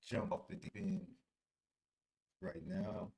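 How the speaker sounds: muffled, garbled bad connection; underwater audio. Real, not acted. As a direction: sounds like talking underwater. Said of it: "It sound like your audio is underwater".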